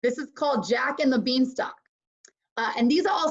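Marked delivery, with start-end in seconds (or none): 0.0-1.7 whispered title. Acted.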